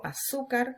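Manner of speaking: azúcar with the weight on zú; a-ZÚ-car, stressed on the penultimate. Shown as a demonstration. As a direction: lean on the middle syllable of azúcar. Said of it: "cargo la voz en la penúltima".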